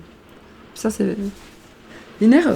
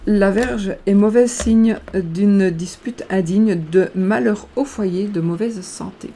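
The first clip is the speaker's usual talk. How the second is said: slow verse reading; slower than usual. Acted. Reads the card's verse aloud.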